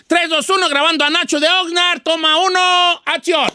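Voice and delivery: high, energetic studio count-in; mock director's call. Don Cheto recording caller Nacho, mock director's call. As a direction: call the take out high and brisk.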